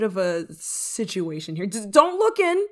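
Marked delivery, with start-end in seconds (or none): 1.6-2.7 high, loud, stammered start; flustered warning. Acted. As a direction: blurt it to stop someone peeking. Hiding body from the crow.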